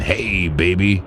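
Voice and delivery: slow, smooth mock sweet talk to his girlfriend. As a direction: lay on the charm slowly, half joking. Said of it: "I talk like this all the time to my girlfriend".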